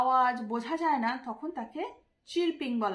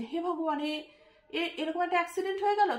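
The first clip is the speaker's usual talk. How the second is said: acted dismay, rising higher and quickening; mock shock; 4 semitones higher, faster than usual. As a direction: act out hearing of an accident, hurried and a little stunned. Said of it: "দুঃখে অবাক হয়ে যাওয়াকে বলা হয়". (দুঃখে অবাক হওয়ার হালকা অভিনয়)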